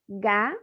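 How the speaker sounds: "Ga" as one standalone syllable; isolated syllable. Shown as a demonstration. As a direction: sound out "Ga" by itself, then stop. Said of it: "uma sílaba". ("Ga" dito como sílaba isolada)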